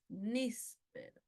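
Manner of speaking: "níspero" slowly, NÍS... pero; stress on antepenultimate syllable. Shown as a demonstration. Teacher giving an esdrújula example, slow "níspero" stressed on NÍS. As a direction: lean on NÍS in "níspero", pause, soft pero. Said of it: "el acento está en la antepenúltima".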